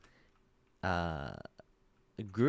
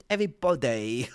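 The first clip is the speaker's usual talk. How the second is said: laughing mock English accent on Everybody; mock bad English accent; 4 dB louder than usual. Streamer mocking a friend's bad English accent, laughing. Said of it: "The way she says body is so bad".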